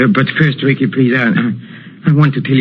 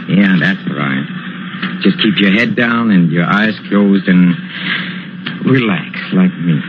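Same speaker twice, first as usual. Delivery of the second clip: sinister soothing; 5 semitones lower than usual. Acted. Maestro lowers voice, sinister soothing.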